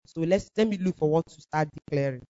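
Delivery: low, soft self-talk; talking to oneself. Retold or imitated. Woman reasoning with herself in her room, low and soft. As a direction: mull it over privately, low and soft. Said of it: "And I told myself".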